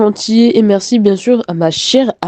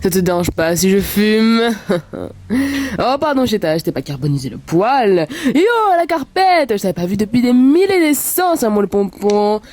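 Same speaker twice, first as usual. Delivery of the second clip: hammy cartoon magic spirit; big showman spirit from a lamp; genie. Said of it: "le doublage du génie".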